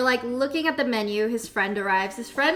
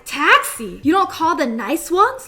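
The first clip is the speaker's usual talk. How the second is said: snobby scoff; 5 semitones higher, 6 dB louder, slower than usual. Retold or imitated. Snobby date scoffing at taxi.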